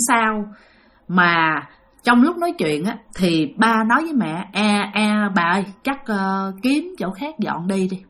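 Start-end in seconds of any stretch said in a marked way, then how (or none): 4.5-8.0 frightened. Retold or imitated. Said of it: "ba của bạn rất sợ".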